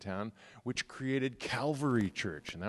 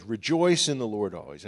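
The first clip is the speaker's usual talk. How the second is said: "rejoice" rung out louder as a call; proclaimed rejoice; 5 dB louder than usual. Shown as a demonstration. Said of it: "I say it again".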